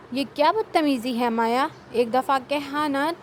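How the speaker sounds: very angry. Acted. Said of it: "وہ نہایت غصے سے کہہ رہا تھا".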